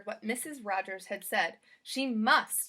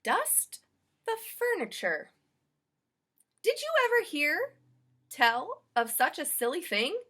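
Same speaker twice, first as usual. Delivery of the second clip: much higher, louder incredulous maid; amazed Amelia; 5 semitones higher, 5 dB louder than usual. Acted. Maid scoffing at the strange chore, incredulous. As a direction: marvel at such a silly thing.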